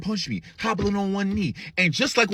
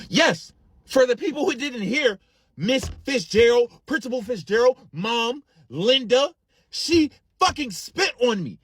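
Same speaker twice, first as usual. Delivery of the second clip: outraged outburst; 7 semitones higher, slower than usual. Retold or imitated. Outraged listing to everyone present.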